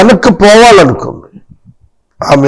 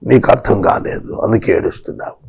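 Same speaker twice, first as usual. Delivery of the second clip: God gently telling weeping Hagar she doesn't understand, low and soft; 5 semitones lower, 8 dB quieter than usual. Shown as a demonstration. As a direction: speak it low and softly, like God consoling. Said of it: "repeated line, second take plain".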